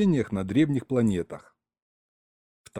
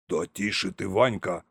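hushed, startled shushing; calm him down in mild alarm; slightly frightened; 3 semitones lower, 3 dB quieter than usual. A narrator's reading. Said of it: "слегка перепугался Всеволод Петрович".

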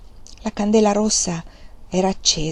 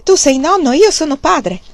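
higher, louder proud announcement; triumphant; 7 semitones higher, 7 dB louder than usual. A narrator's reading. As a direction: proclaim it with pride. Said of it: "esclamò trionfante".

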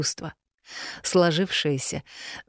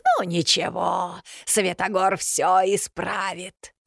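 slow, satisfied crone voice; smug witch; 3 semitones higher, slower than usual. A narrator's reading. Yaga tells Solovey Svetogor will fix it, slow and smug. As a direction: say it like a scheming old hag.

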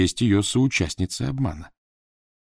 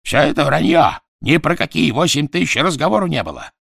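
high, loud furious shouting; berserk rage; 9 semitones higher, 6 dB louder than usual. Acted. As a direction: rage at them, out of control. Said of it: "в бешенстве закричал Квидер".

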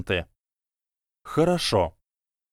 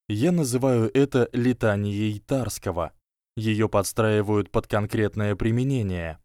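plain reading voice

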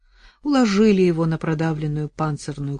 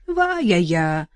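trembling voice; 4 dB louder, slower than usual. Acted. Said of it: "дрожащим голосом".

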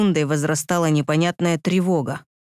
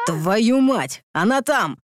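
growled; 5 semitones higher, much slower than usual. Acted. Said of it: "Рыкнул я".

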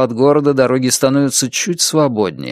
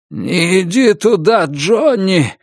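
higher, sudden alarmed warning cry; delirious cry; 8 semitones higher, slower than usual. A narrator's reading. Billy in delirium warning Johnny, a sudden alarmed cry. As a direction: call out to stop him in time. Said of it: "кричит он".

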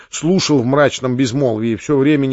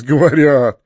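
plain reading voice

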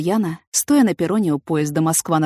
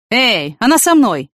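calling out; 4 semitones higher, 6 dB louder, slower than usual. A narrator's reading. Man calls off the young men.

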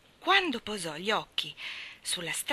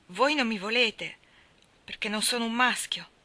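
distressed; 3 semitones higher, 4 dB louder than usual. Acted. Orphan realises she's unwanted.

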